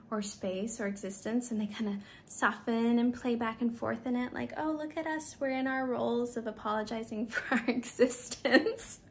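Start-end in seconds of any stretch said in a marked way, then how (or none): 4.6-9.0 mock girly bonding. Women bonding over apologies, mock playful. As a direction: tease the apology ritual.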